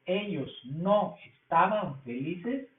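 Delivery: slow, careful model sentence for the class. Shown as a demonstration. Teacher models a sentence slowly for the students. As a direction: spell it out slowly. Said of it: "repitiendo nuevamente".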